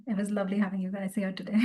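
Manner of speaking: soft, unvoiced whisper of thanks; whispered goodbye. Real, not acted. Meditation teacher whispering goodbye to her class.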